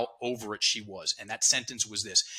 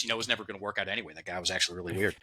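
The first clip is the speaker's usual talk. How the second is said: dismissive; 4 semitones lower, 4 dB quieter, much faster than usual. Retold or imitated. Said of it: "and she goes".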